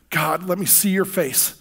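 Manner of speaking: slow, soft plea on "see your face"; longing plea. Retold or imitated. Praying alone at dawn, a slow soft longing plea. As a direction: ask to see God's face gently, slowly. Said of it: "I cry out".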